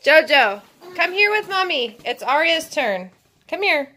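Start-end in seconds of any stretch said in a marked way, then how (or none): 0.0-2.0 louder call across the room. Real, not acted. Mom calling her toddler back, loud call.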